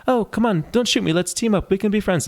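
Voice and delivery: put-on very high, pleading British child voice; British kid. British kid asking to team up, high British child voice. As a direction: imitate a British boy coaxing a stranger. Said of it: "this British kid has got that British voice".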